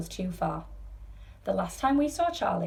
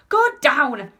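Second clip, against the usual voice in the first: loud, raised-pitch order; yell; 8 semitones higher, 10 dB louder than usual. A narrator's reading. Grandpa orders the rocketing elevator back down, yelling. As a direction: bellow it over the noise. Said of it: "yelled Grandpa George".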